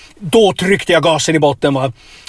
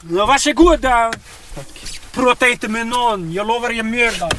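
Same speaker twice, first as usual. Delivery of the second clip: a somewhat higher, menacing hint of the gunman; mock gunman; 8 semitones higher than usual. Fake hijacker sending the passenger off with a lightly menacing threat. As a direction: keep the threat going, higher but calmer. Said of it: "Nu hotar jag".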